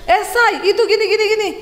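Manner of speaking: high, excited rattle; morning chatter. Acted. Wife addressing husband on waking, high lively chatter. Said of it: "bangun pagi ngomong".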